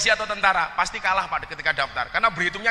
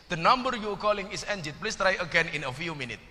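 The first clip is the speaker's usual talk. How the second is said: operator recording voice; 4 dB quieter than usual. Retold or imitated. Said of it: "dijawab pakai bahasa apa".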